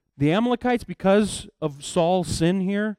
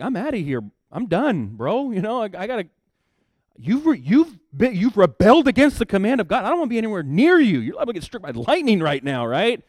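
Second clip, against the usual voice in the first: louder, higher, fed-up prophet; exasperated brush-off; 6 semitones higher, 6 dB louder than usual. Retold or imitated. Samuel refusing Saul, loud and exasperated. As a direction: get me out of here, bro.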